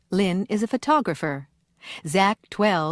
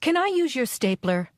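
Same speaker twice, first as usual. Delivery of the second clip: polite request; 5 semitones higher than usual. Shown as a demonstration. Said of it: "Write P for polite, I for impolite".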